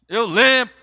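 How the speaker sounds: very loud, high burst; acted-out cry of remembering; excited realization. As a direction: blurt out the sudden memory. Acts out sudden joyful remembering.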